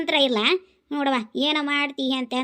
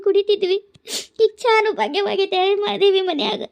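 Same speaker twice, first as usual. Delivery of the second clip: higher, tearful, sobbing lament; crying complaint; 4 semitones higher than usual. Acted. Old widow weeping to her neighbour about her daughter-in-law, tearful and higher. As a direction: weep as you grumble about home. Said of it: "ಯಾಕೆ ಅಳತಿ?".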